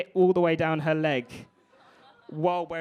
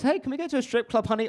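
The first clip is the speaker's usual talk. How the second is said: high-pitched mock sweet request; raised, put-on voice; acted partner's plea; 8 semitones higher, faster than usual. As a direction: pipe up high like an eager partner. Acted partner asking honey to go out.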